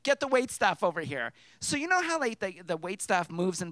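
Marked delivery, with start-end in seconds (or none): 0.0-1.3 mildly barked command, louder; retold bossy order. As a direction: bark it at the staff, lightly imitated. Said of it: "She starts barking at management".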